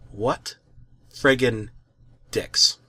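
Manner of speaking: hushed, breathless insult; low whispered curse; whispered disgust. Real, not acted. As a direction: say it under your breath, shaken. Muttered disgust after horror scene.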